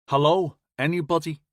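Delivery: Scouse radio hail, a touch of Liverpool; Liverpool accent. Acted. Radio crew hailing anyone, light Liverpool accent. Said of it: "came the Liverpool accent over the radio".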